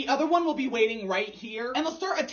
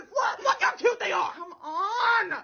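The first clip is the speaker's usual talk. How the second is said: gushing squeal; 10 semitones higher, slower than usual. Real, not acted. Vlogger showing her cuddling cats, high and gushing. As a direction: squeal at how cute they are.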